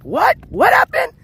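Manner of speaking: high, surprised chat voice; mock confusion. Streamer imitating viewers who missed the action, mock surprise. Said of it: "people are like".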